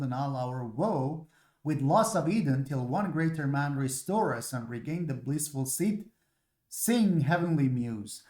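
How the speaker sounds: teacher reading Paradise Lost to students; poem reading. Shown as a demonstration. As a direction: read it like an invocation. Reads Paradise Lost aloud.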